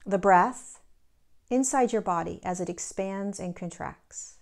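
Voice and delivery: measured guiding voice with long pauses; guided meditation. Real, not acted. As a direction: lead listeners gently into the body, pausing between phrases.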